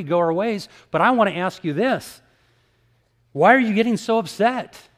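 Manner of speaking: a street preacher lifting his voice to the room; preaching hard. Retold or imitated. Preaching to angry atheists.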